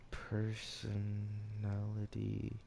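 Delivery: stretched slowly, syllable by syllable; slow drawn out. Shown as a demonstration. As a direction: draw the word out slowly. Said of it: "no, not person".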